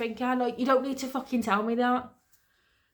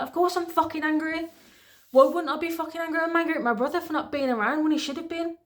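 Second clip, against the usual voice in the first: higher-pitched, indignant comeback; angry retort; 5 semitones higher than usual. Retold or imitated. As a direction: retell it with real indignation. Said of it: "if I was angry".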